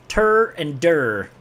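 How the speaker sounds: "Tur and dur" slow, t set against d; contrasted syllables. Shown as a demonstration. Streamer comparing two close sounds, slow "Tur and dur". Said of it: "are very close".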